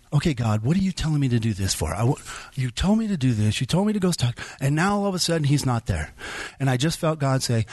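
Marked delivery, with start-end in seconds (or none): 0.1-6.1 mildly indignant retold complaint; kinda mad. Speaker challenges God after the man is gone, mildly mad. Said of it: "now I'm really kinda mad".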